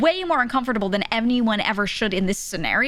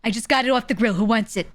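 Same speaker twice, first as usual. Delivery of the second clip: imitating a yelling uncle, pitched up; loud uncle's voice; 3 semitones higher than usual. Uncle handing out food at the grill, loud mock yell. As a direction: holler like the loud man working the grill. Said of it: "he literally sounds like that".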